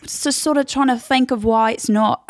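feigned puzzlement as a dig; bitchy British contestant. Acted. Contestant in his talking head, bitchy. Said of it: "little bitchiest little twink".

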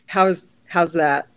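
attempted American accent. Shown as a demonstration. Aussie co-host demonstrating her American accent, put-on American. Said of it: "here's my American accent".

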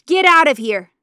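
loud, high yell; furious shout. Acted. Mama screaming at her daughter as she shoves her out.

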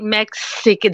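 "Mexican" with the first vowel leaning toward a short i; imitated vowel in Mexican. Co-host copying how the host says it, imitated vowel in "Mexican". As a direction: say "Mexican" almost as "Mixican". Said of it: "It sounds like an I".

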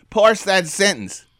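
mock stern whispered order; whispered schoolroom command. Shown as a demonstration. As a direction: hiss it like a strict nun. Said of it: "The nuns taught me how to parse".

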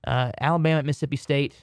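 Southern country twang on Alabama at Mississippi State; country accent. Real, not acted. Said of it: "in such a country accent".

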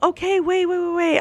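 high, insistent retold interruption; urgent objection. Interrupting the guy from Ireland, urgent objection.

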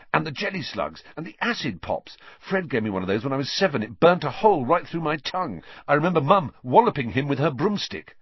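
gleeful younger brother remembering mischief; eager Ron. A narrator's reading. Ron showing Harry the sweets, excited.

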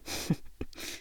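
quiet breathy chuckle; brief low-key laugh; soft laugh. A narrator's reading. Friend laughs at her teasing, soft laugh. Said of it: "He laughed".

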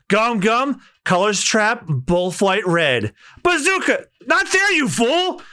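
high shouted battle cry; shouting the bazooka attack. Acted. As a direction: bellow the attack name. Attack call and rebuke.

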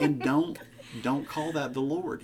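loud, emphatic warning; playful loud scolding. Real, not acted. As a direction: punch it out, don't blame the Lord. Joking warning about indigestion.

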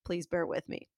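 congested from a cold; nasal, stuffed-up voice. Real, not acted. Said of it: "I apologize in advance if I sound nasally or congested".

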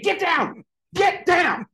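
high-pitched mock shout; bossy playground yell, very high; shouted command. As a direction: shout them off the hill. Acted shove off the hill.

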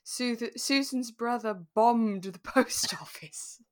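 slowed, laughing through the words; reading through laughter. Real, not acted. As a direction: read the silly note while cracking up. Reading absurd note aloud.

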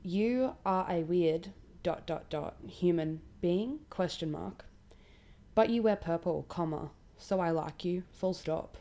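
slowly reading every punctuation mark aloud. Shown as a demonstration. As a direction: spell out the dots and commas, deadpan. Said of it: "I'm reading this correctly".

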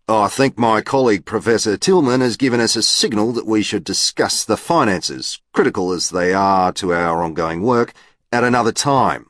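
a hint of a polished lecturer; the speaker's voice. The speaker addresses lecture audience.

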